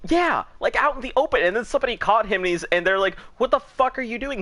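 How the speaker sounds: high, loud amused retelling; excited, laughing. Real, not acted. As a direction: tell it through rising laughter. Laughing while telling funny story.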